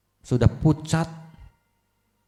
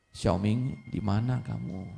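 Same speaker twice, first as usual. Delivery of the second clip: much softer call from a sick bed; weak, quiet voice; 3 semitones lower, 8 dB quieter, slower than usual. Acted. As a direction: call out feebly for the son. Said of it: "Pelan suaranya". (ayah yang sakit memanggil anak dengan suara pelan)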